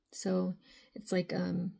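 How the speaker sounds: hoarse, raspy speaking voice. Real, not acted. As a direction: talk through a raspy throat. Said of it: "I don't know what's up with my raspy voice today".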